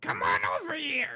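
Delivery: slow, put-on, fake elderly woman voice. Imagining the frog girl character talking: put-on old woman's voice. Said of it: "if she talked in that voice".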